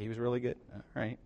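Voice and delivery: normal talking voice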